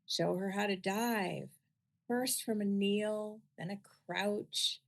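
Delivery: measured poem recitation with long pauses; unhurried, deliberate poetry-reading voice. Acted. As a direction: read it as verse, slowly, phrase by phrase. Reads own poem aloud.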